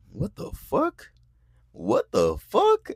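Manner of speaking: imitated disbelief, pitch jumping up; acted-out "what the" shock; incredulous outburst. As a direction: stretch it out in mock outrage. Retells her stunned outburst.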